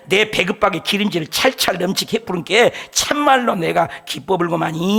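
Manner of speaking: preacher showing off his Jeolla dialect to the congregation. Pretend. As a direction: lay on the Jeolla dialect with relish. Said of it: "전라도가 사투리가 제일 낫네".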